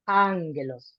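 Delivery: angelos with the first syllable stressed; stress accent. Shown as a demonstration. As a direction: lean on the opening "an" of "angelos". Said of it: "with more force".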